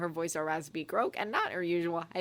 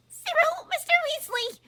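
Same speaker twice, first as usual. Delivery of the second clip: very high, loud aghast stammer; stammering in shock; 8 dB louder than usual. A narrator's reading. Umbridge stammering aghast at Ron's offer, very high. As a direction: stumble over it in disbelief. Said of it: "she stammered".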